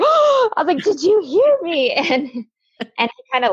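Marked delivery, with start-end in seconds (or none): 0.0-0.5 high startled gasp of oh; a sharp surprised oh, pitched way up. Retold or imitated. Gasping reaction on the date. 0.8-2.0 1 smug retort. Retold or imitated. Mock-smug reply retold on the date.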